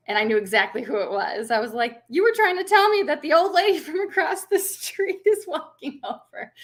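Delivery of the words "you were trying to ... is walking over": high-pitched mock amazement; retold realization. Mother realizes what her toddler meant, high mock amazement. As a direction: play up the dawning realization, pitched way up.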